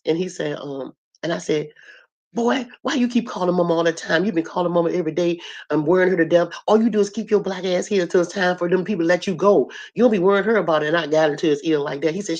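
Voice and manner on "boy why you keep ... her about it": scolding a grown brother, a bit higher and pressing; fussing. Retold or imitated. Sister scolding her brother in his hospital room, fussing. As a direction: get in his ear and fuss. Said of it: "So I fussed at him".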